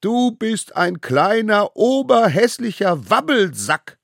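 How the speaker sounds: high, slow chanting yell; roared insult. A narrator's reading. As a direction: bellow each word as a taunt. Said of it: "brüllten sie".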